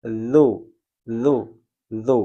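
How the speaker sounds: lu with the tongue tip between the teeth, no hiss; soft zal. Shown as a demonstration. Teacher demonstrating a soft zal. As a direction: say lu softly, tongue touching the upper teeth. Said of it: "Jadi dia dibaca lembut".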